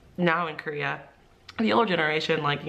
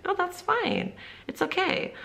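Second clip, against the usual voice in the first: reassuring; 14 semitones higher, slower than usual. Retold or imitated. Teacher reassures the hesitant student.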